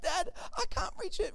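a hint of the four-year-old, quickly; imitating daughter. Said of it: "So she's like".

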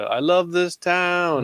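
lightly imitated movie catchphrase. Fan quoting a film's closing line, lightly hammed-up cheer. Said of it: "he does the".

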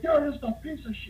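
high, strained mock tirade; imitated screaming. Bar owner insulting the rival brewer, acted-out screaming. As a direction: spit out the insult as an irate owner. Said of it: "he's screaming at him".

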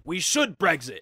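slightly hammed-up British MP; slow, halting mock speech to parliament; lightly voiced British politician. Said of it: "And then he says".

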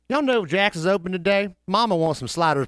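lightly voiced southern mama asking about sliders; mama character voice. Caller pretending to be Mama, lightly put-on voice. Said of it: "I'm already in this character".

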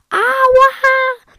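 loud, high-pitched "ouch"; pained cry. Acted. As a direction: cry out as if suddenly cut. Papa cuts himself in story.

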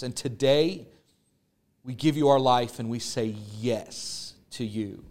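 earnest pastor praying over listeners; closing prayer. Acted. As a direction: lead them in prayer, steady and sincere.

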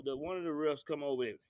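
ordinary talk, nothing marked

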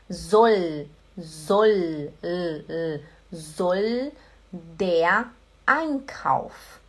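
"soll" drawn out, ending on a held l; careful pronunciation demo. Shown as a demonstration. Teacher drawing attention to the l in "soll", slow and careful. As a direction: linger on the l of "soll", slowly. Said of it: "Atenção".

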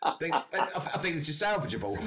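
high, laughing through the words; can barely get it out for laughing. Real, not acted. Friend cracking up over the ruined gun, laughing high.

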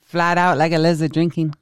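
Aussie accent, laughing through it; Australian accent. Shown as a demonstration. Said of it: "do it in an accent".

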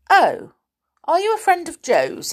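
high-pitched startled question; surprised pixie. A narrator's reading. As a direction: ask in sudden high surprise. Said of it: "suddenly looked surprised and a little ashamed".

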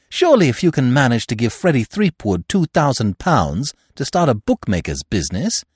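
put-on bright, direct young lady speaking to her friend's stepfather; Eve's voice. Eve voiced, higher pitch.

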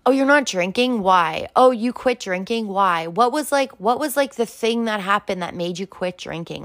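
quick mock-curious questions, lifted in pitch; nosy acquaintance. Acquaintance prying into why someone quit drinking, lightly mocked curiosity. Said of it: "and you're like".

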